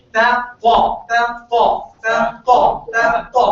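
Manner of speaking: ta said flat and even, no echo. Shown as a demonstration. Teacher drilling the flat ta for students. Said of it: "This ta is called flat".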